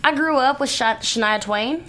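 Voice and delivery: put-on Southern twang; country accent. Shown as a demonstration. Actress backing up her claim with country roots, country accent. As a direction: keep up the country accent while explaining. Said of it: "I got the country accent".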